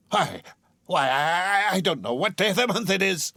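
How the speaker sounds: high, stammering joy; flustered Scrooge. Acted. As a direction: stumble over the words happily. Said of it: "said Scrooge".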